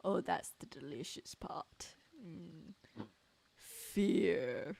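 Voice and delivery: whispered villain relishing it; sinister whisper. Acted. Villain whispering to the reporter, sinister relish. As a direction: breathe it out like a savoured secret.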